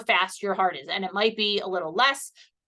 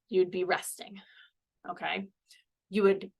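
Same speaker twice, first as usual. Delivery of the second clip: sudden whispered aside; whispering; 2 semitones lower, 4 dB quieter than usual. Real, not acted. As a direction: drop to a whisper mid-sentence. Instructor explaining resting pulse check.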